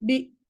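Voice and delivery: slow, clear বি; drawn-out বি. Shown as a demonstration. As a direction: hold the vowel of বি long and clear. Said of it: "এরকম করে পড়বেন".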